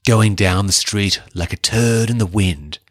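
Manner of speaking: a lightly voiced menacing symbiote, a touch off his own voice; casual hint of monster menace; quoting Venom with a hint of his voice. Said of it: "Venom says".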